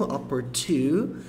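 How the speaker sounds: opportu slowed down with a puffed, breathy T; breathy T demo. Shown as a demonstration. Teacher isolates the sound for students, slow and breathy. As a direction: blow air on the T of opportu. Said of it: "Esse T é bem sopradinho".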